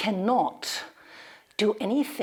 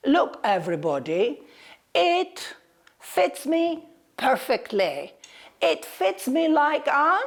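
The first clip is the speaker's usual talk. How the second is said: proud tortoise boast. Acted.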